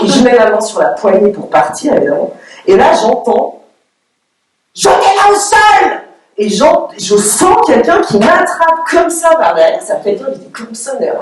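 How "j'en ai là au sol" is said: high, slow mock yell from the guards; high stretched mock shout; retold shout. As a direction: bark it like a guard ordering a takedown. Guards shout to take her down.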